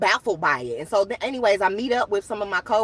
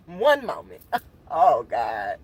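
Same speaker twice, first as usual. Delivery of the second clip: laughing; 7 semitones lower, slower than usual. Real, not acted. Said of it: "Hold on, I need a moment".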